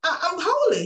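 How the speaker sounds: high, loud mock-proud self; retold self, a touch pious; proud holy declaration. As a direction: announce it like you're sanctified. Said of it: "And I was like".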